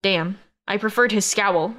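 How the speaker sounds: usual speaking voice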